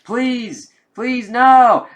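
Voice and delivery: high, rising cry of terror; desperate pleading. Acted. Victim begging the creature not to eat him, high terrified plea. Victim begs as the symbiote attacks.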